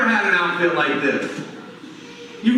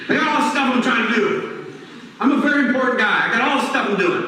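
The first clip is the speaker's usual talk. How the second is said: higher, hurried, self-important; busy and impatient; 4 semitones higher, faster than usual. Retold or imitated. Kelly playing his busy self, impatient with God. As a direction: brush him off, too busy to listen.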